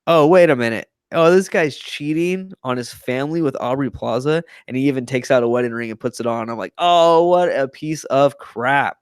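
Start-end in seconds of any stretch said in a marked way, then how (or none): 0.1-4.4 higher-pitched mock shocked reaction; retold dawning realization. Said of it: "and you're like". 6.8-9.0 slow, drawn-out higher-pitched indignation; retold disgust. Acted disgusted reaction to cheater.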